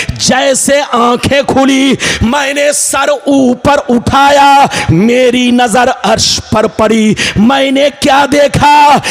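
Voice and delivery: rhythmic chant building to a long held cry; impassioned preaching. Acted. Preacher retells Adam's vision of the throne, chanted preaching. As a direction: build the phrases up, then stretch the last words out.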